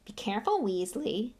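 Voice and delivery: understated sneering warning; a touch of bully's menace. Acted. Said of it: "sneered Malfoy".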